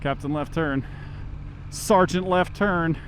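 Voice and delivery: muffled inside a closed helmet. Real, not acted. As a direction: voice boxed in by the visor. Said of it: "it makes my voice sound less awful".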